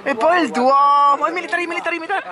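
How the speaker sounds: emphatic italian speech. Real, not acted. Excited sighting continues.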